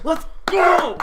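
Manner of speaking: high excited cheer. Real, not acted. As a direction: celebrate a friend winning. Cheering a friend's result.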